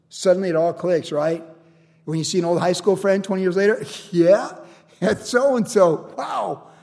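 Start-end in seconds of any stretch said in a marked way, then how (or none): 4.1-6.7 drawn-out dawning surprise; amazed recognition. Acted. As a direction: slowly realize who it is, ending in wow. Recognizing an old school friend.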